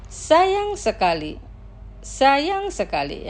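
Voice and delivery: drawn-out, syllable-by-syllable model; slow pronunciation. Shown as a demonstration. Teacher models words for listeners to repeat, slowly. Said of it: "Los pronunciaré lentamente".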